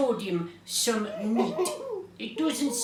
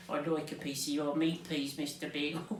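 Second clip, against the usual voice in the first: soft, low polite request; quiet; 5 semitones lower, 6 dB quieter than usual. A narrator's reading. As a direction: ask gently with the voice dropped. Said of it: "then he said quietly".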